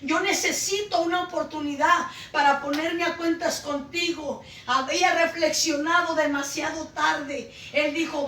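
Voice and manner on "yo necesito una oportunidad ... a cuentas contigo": re-enacted plea with raised voice; impassioned retelling of crying out; retold cry to God. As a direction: beg earnestly for another chance, moderately loud. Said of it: "yo le gritaba y le decía".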